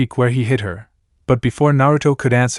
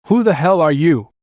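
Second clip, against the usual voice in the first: shout; 5 semitones higher than usual. Acted. Naruto to the ogre, challenging shout. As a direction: challenge the stranger. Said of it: "Naruto shouted".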